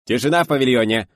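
high, loud order for silence; stern shout. A narrator's reading. Sound engineer hushes the studio, stern shout. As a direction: silence the room strictly. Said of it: "строго прикрикнула звукорежиссёр".

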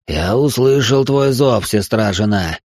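rumbling demon voice. Acted. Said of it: "пророкотал Баалор".

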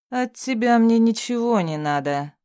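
evil smirk. Acted. Bloodied captive sneering at hero, smirking. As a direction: smirk through the words. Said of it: "ответил он со злобной ухмылкой".

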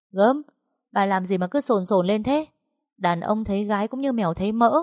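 mock her with contempt; sneering mockery. Young woman mocking the old mother, scornful.

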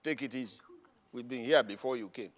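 soft, low scolding; mock old-timers. Old members warn the newcomer in a low soft voice. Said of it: "older members voiced".

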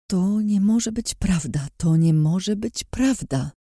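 high, slow, pleading repetition; desperate denial. Acted. Daughter seeing her tortured father, slow high desperate denial. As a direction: refuse to believe it, slowly.

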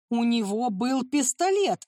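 a mild, understated yell. Acted. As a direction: blurt it out hard. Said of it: "орал Брэдли". (сдержанный крик)

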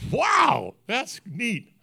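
a leap up in pitch on wow, then easing off; delighted wow. Retold or imitated. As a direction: retell the thrill of seeing his photo, lightly acted. Retelling his own delighted reaction.

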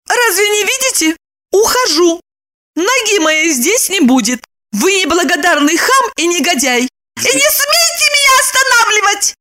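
high, rising indignant squeal; shrill outburst. Acted. Lipochka squeals at Roman as she leaves. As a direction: climb to a squeal at the end. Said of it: "взвизгнула она".

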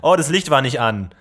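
loud, fed-up film crew; annoyed crew voice. Acted. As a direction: call it out across the set. Acted film crew quote.

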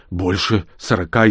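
ordinary delivery

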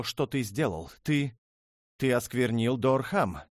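high, loud furious accusation; threatening shout. Acted. Princess threatens to expose her husband, shouting. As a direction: hurl the threat at him.

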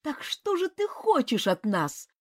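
выше и медленно, восклицая; воскликни с мольбой; восклицание. A narrator's reading. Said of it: "воскликнула богиня". (восклицание богини)

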